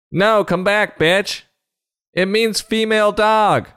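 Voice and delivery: high put-on pleading voice; pleading character voice. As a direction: call them back in a high voice. Acted plea to the one leaving.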